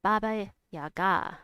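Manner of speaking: "Baba Yaga" with the final "ga" stressed; stress on last syllable. Shown as a demonstration. Streamer working out a viewer's correction, "Baba Yaga" stressed on the final "ga". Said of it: "has an accent on the last syllable".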